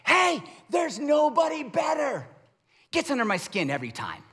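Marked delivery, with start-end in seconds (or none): 0.1-2.3 sideline cheer. Retold or imitated. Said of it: "what I'm talking about".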